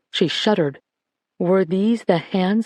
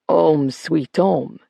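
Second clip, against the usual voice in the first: slow, dry and wry; old man showing off his bare flat, wryly; 3 semitones lower, much slower than usual. Acted. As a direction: drawl it with mock pride. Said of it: "he said wryly".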